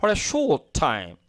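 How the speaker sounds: short said the American way; slow American read of short; American English demo of short; American accent. Shown as a demonstration. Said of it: "আর American শর্ট বলবে".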